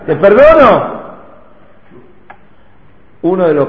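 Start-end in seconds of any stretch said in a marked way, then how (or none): 0.0-1.0 mild, half-voiced imitation of a shout; mock shout. Judge quoting the robbed rabbi's cry, mock shouting. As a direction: call it out, retelling the yell. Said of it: "salís a gritarle qué cosa".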